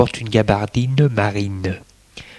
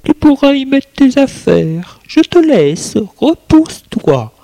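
Hélène's voice; 4 dB louder than usual. Acted. Hélène speaks to Katia.

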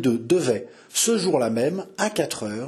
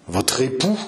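growled. Acted. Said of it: "gronda le connétable".

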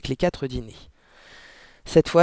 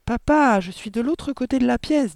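put-on higher-pitched child's protest; 8 semitones higher than usual. A narrator's reading. Mathilda answering her father's accusation, protesting. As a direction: object in a raised child's voice.

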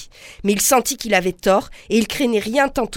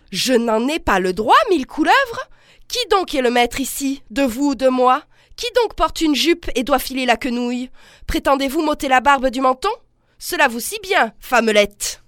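indignant outburst, pitched high on mille couleuvres; angry husband; 4 semitones higher than usual. Acted. The husband Delmar berates his wife, an indignant outburst. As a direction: scoff at her as a furious husband.

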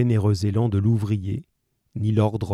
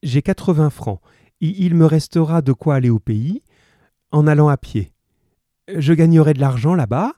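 higher, louder, insistent promise; earnest pleading mother; 6 semitones higher, 6 dB louder than usual. A narrator's reading. Cosette's mother promises to return, raised and urgent. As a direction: press the case earnestly.

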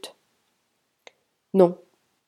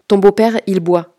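plus fort, coupant net; coupe la parole; 7 dB louder than usual. Acted. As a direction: lui couper la parole d'un ton sec et sonore. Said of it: "dit Bastien pour couper son lieutenant". (couper la parole à voix forte)

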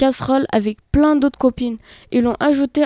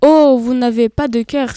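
raised, indignant reproach; indignant outcry; 4 dB louder than usual. Acted. Golden apple rebuking the heartless potato, indignant outcry. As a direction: hurl the accusation with offended heat. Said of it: "s'écria indignement la pomme golden".

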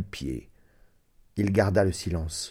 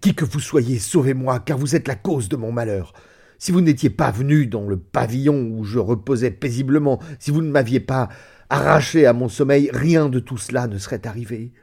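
voix entrecoupée; 3 semitones higher, 3 dB louder than usual. Acted. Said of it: "d'une voix entrecoupée".

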